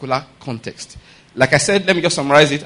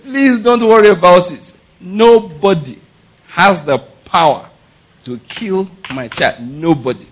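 steady, confident and unshaken, slowing on the last words; a mother calmly refusing the witch talk; bold, calm assurance; slower than usual. Retold or imitated. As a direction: tell her firmly there is nothing to fear. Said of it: "my friend said it boldly".

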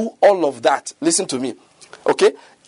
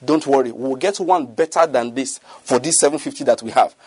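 lower, tossed-off reassurance; casual offhand remark; 5 semitones lower than usual. Retold or imitated. Preacher imitating a believer's casual reassurance, lightly. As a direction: say it lightly, without a thought. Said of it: "casually you just say".

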